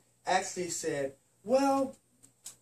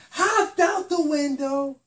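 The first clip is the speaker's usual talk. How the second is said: lively exit; 6 semitones higher, 9 dB louder, slower than usual. A narrator's reading. Spider-Man leaving fast.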